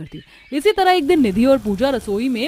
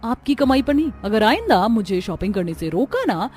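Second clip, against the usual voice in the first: angry scolding; 4 dB louder than usual. Acted. Bride scolds mother-in-law over shopping.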